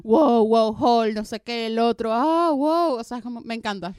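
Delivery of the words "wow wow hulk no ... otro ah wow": loud awestruck wows; excited fan. Retold or imitated. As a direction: gush like a thrilled fan.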